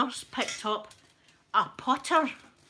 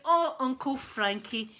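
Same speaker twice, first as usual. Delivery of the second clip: slow, louder sing-song scold; mock scolding; 4 dB louder, slower than usual. Young mother chiding drunk Uncle Frankie, slow sing-song. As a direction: chide him like a child. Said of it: "and she went".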